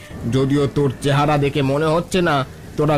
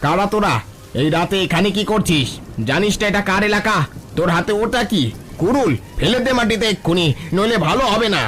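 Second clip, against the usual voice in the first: higher, forceful bandit demand; threatening challenge; 4 semitones higher than usual. Acted. Bandit threatening the woodcutter family, menacing shouts. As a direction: bark orders at the strangers. Bandit confronts intruders at night.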